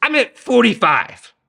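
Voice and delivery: sudden high squeak on fifty; backpedalling in a startled high voice; caught out. Retold or imitated. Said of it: "Abraham's like".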